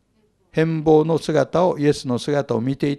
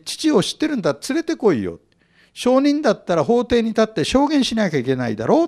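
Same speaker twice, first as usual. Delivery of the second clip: higher, lightly mocking challenge; jeering taunt; 6 semitones higher than usual. Pharisees jeering at Jesus to bring his father to court, mocking. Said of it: "わーって笑ってあざけってるわけだよね".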